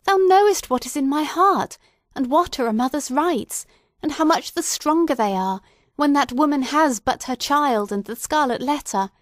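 high, loud, desperate plea; mother begs the young minister to speak for her, high and loud; wild appeal. A narrator's reading. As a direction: beg the pastor wildly, on the edge of madness. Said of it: "this wild and singular appeal".

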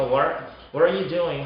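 "what are you doing?" with a clear "are"; natural "what are you doing?", nothing dropped; fully sounded R. Shown as a demonstration. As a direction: keep the R full in "are". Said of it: "R 사운드가 잘 나오면".

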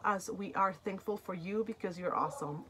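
real tears rising as she reads; moved to tears. Real, not acted. Vlogger reading a thank-you card from the makers, voice catching. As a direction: voice catching with a real cry on "awesome". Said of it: "that kinda makes me a little emotional".

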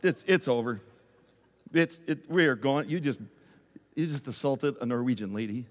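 low, muttered dread; panicked aside to Bruce, low. Retold or imitated. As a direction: mutter that it's all over. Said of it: "I'm like".

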